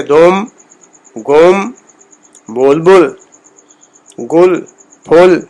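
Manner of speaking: short rounded o in دوم and گوم; گل as "gol", said as isolated citation words; Persian pesh sound. Shown as a demonstration. Teacher giving examples of pesh, Persian pesh sound. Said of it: "پیش کا تصور جو ہے".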